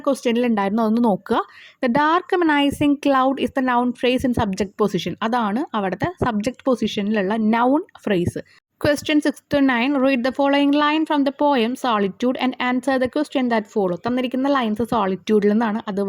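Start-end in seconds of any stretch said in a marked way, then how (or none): 1.8-5.1 reads the sentence out word by word, very slowly; slow reading aloud. Shown as a demonstration. Teacher reads the answer line to students, very slowly. 8.8-14.0 drawn-out reading of the exam question; slow reading aloud. Shown as a demonstration. Teacher reads the question paper to students, slowly.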